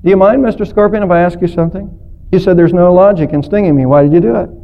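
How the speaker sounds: mildly resigned, subdued questioning. Acted. Sinking turtle to the scorpion that stung him, mildly resigned. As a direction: ask it as one who has given up. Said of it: "the turtle resigned said".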